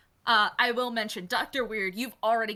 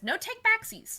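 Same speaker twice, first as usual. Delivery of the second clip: gleeful taunt; 12 semitones higher than usual. Acted. GM voices a quick snatch.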